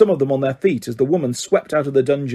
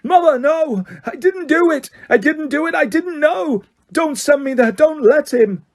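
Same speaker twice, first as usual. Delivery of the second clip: very high, panicked wailing; condemned boy screaming to his mother; 12 semitones higher than usual. A narrator's reading. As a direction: scream in terror. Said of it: "The boy began to scream".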